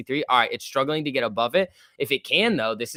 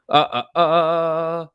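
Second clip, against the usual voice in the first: mock impression; 5 semitones higher, 7 dB louder, much slower than usual. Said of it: "That was the impression".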